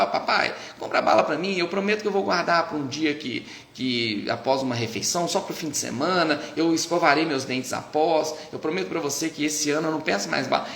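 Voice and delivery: mock-formal little child bargaining; pleading child. Toddler making an impossible bargain with dad for candy, mock sweet. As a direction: play a toddler making grown-up promises. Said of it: "não vai falar".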